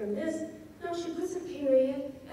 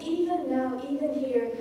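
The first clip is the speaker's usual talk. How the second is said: EVEN NOW, EVEN HERE firmly stressed on each word; insistent emphasis; 2 semitones higher, 3 dB louder than usual. Shown as a demonstration. Lecturer voicing the poet's insistence on living, emphatic EVEN NOW, EVEN HERE. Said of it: "She's insisting on living in this moment".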